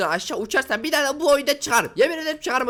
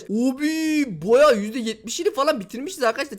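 ordinary delivery

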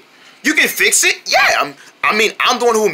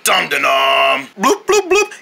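TV show announcer. Acted. Mock TV show bumper.

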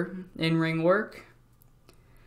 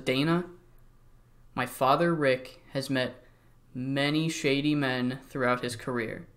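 quiet, low, menacing warning; hushed mock-sinister Charlotte warning; veiled threat; 3 semitones lower, 6 dB quieter than usual. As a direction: lean in and threaten softly.

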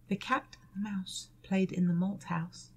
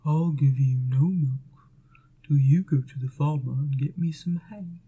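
gruff cow; 6 semitones lower, 8 dB louder than usual. Acted. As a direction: rumble it like a stubborn cow. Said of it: "said the cow".

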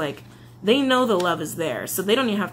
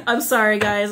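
laughing apology, louder; embarrassed laugh; 5 dB louder than usual. Real, not acted. Reader apologizes to viewers, laughing. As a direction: laugh it off after the wave of emotion. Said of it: "that's so much emotion that just hit me".

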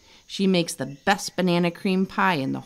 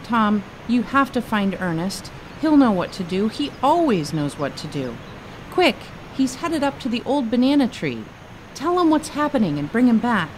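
urgent plea; 5 semitones higher than usual. Acted. Kino urgently begging for help.

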